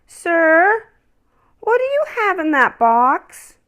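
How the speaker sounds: put-on a small boy calling from a window; high curious child voice; little boy.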